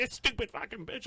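mock a worked-up passenger's high squeal; fired up. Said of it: "Laney was all fired up".

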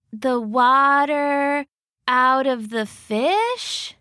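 a touch of a dim bear working it out; Goldie the bear. Acted. Goldie explains her plan.

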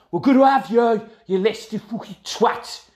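rowdy football fan shout. Retold or imitated. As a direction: bellow it like an away-end taunt. Retold rival fans' chant.

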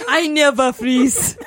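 put-on T'Challa accent. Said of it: "That's a bad T'Challa accent".

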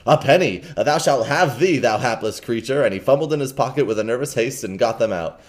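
eager kind gentleman. Acted. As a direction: press the coins on him. Stranger gives pennies eagerly.

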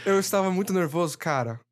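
deadpan dubbed translation; mock simultaneous translation. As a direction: read it like a voice-over interpreter. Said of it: "faça a tradução simultânea".

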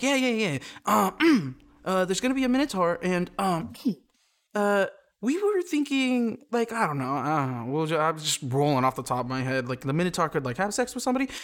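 nervous eager pitch. Pretend. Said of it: "imagine the pitch meetings".

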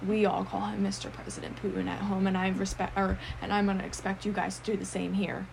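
low, earnest imitation of a male customer; dead serious. Imitating a client instructing vet staff about his dog, dead serious. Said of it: "I'm so serious".

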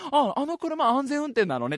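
posh lady remark. Retold or imitated. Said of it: "そのお母さんの言った".

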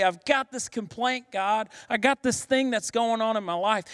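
mildly acted in-your-face plea; confronting God. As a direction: take it straight to God, urgently. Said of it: "You get in God's face and you say".

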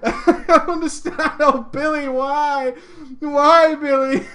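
mock lament.

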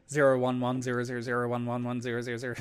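fast flat robot voice reading binary; robot saying binary. Acted. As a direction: rattle off binary like a machine. Robot Bolt speaking in binary.

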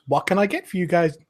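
high, fast barmaid voice; barmaid taking orders. Acted. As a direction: take their orders briskly. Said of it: "And she goes".

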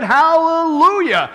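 high, long drawn-out hallelujah; shouted praise. Acted. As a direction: stretch the cry out like a rejoicing multitude. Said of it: "And again, they shouted".

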